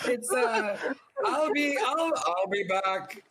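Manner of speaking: a shaky, giggling Terminator; Schwarzenegger impression. The speaker as Arnold impressing Dorothy, laughing through the accent. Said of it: "that was Terminator and Schwarzenegger".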